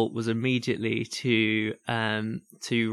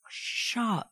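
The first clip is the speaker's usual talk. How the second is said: dismissive; 9 semitones higher, 4 dB quieter than usual. Retold or imitated. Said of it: "you're just like".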